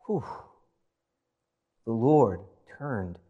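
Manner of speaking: normal talking voice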